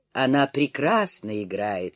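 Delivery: usual speaking voice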